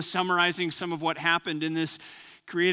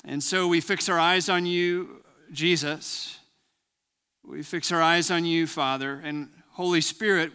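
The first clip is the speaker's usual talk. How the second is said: steady, lowered prayer voice; 3 semitones lower than usual. Acted. Pastor praying before the sermon, earnest prayer voice. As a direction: pray earnestly over the gathered church.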